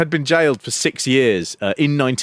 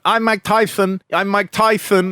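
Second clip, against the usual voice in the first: Tyson impression; 5 semitones higher than usual. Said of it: "suddenly kind of goes".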